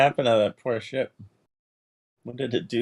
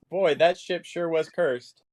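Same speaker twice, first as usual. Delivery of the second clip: slow, slightly raised character remark; Linda; 5 semitones higher, slower than usual. Acted. Player speaks for Linda about the doomed ship, slow character voice. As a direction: draw it out as an in-character comment. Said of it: "Lin-, Linda says".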